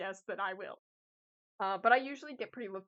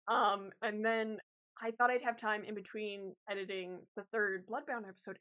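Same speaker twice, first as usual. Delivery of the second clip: ordinary talk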